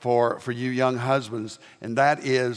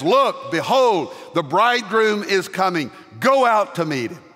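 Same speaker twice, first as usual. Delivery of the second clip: voice from heaven; 6 semitones higher, 3 dB louder than usual. Retold or imitated. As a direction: announce it like a herald from the sky. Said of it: "the voice from heaven says".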